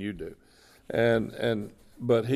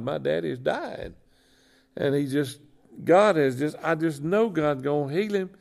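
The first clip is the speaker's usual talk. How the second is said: higher and louder, imitating a distraught, angry daughter; retold anguished outburst, pitched up and pushed; upset daughter retold; 5 semitones higher, 4 dB louder than usual. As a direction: relay her frantic protest at God, mock-pleading. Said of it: "She was so mad".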